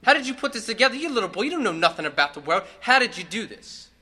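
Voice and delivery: put-on can't believe what the kid pulled off; amazed dad. Father stunned at the finished puzzle, loud and amazed. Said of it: "his father's like".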